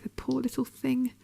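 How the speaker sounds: tender pity. Acted. Hunter recalling the injured prey, softly pitying.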